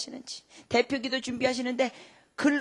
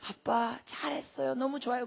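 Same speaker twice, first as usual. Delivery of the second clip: praising daughter; 5 dB quieter than usual. Retold or imitated. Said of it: "그럼 제가 그래요".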